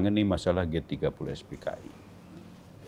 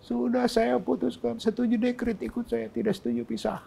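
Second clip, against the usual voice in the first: retold snapping. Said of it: "Dibentak lagi saya".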